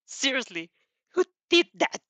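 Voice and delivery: high, loud incredulous question; disgusted. A narrator's reading. Katsuki's disgust.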